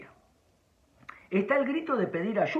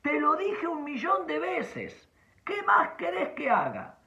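mock parent yelling; 11 semitones higher than usual.

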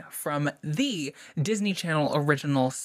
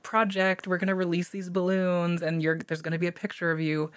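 naive cheery voice; 2 semitones higher than usual. Retold or imitated. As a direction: sound blissfully unaware. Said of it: "it's like you think".

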